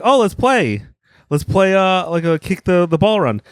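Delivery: high, chirpy let's play; mock eager invite. Retelling comics who pull out a ball, high and eager. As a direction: pitch it up like a keen kid. Quoting comics starting a game.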